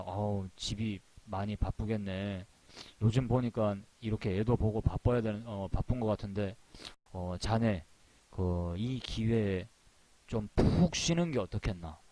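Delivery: a boss easing someone out with fake concern; lightly voiced editor hinting at dismissal; sly polite boss. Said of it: "이럴 것 같아요".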